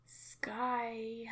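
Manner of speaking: breathy, hushed calling of a name; eerie whispered call. Acted. Father calls hiding daughter.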